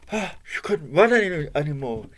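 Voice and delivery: gasping, breathless telling; out of breath. Acted. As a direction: puff between the words. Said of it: "she was out of breath".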